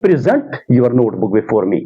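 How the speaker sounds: "present" said pri-ZENT, stress on ZENT; slow model sentence, "present" with weak pri, strong ZENT; verb stress. Shown as a demonstration. Teacher modelling the verb for students, pri-ZENT. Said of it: "जब verb इसको इस्तेमाल करना हो".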